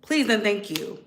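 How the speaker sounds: usual speaking voice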